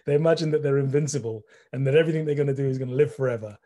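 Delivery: quick, amused delivery through laughter; real chuckle running into the words; laughing while speaking. Real, not acted. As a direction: laugh your way into the remark. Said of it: "I'm laughing before I say it".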